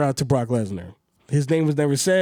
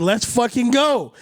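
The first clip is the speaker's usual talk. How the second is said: slow, drawn-out hyped cheer; 7 semitones higher, slower than usual. Retold or imitated. Fan reliving the Royal Rumble finish, slow hyped cheer. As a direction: stretch it out like a crowd celebrating. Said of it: "we're like".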